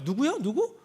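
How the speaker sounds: high mock puzzled "who?"; hammed-up innocent questioning; feigned ignorance. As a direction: play dumb, as if you never heard of him. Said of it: "이렇게 되는 거예요".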